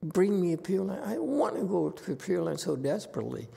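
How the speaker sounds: a hint of a pleading old woman; desperate devotee. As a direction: imitate someone begging to reach the Pure Land. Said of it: "and they say".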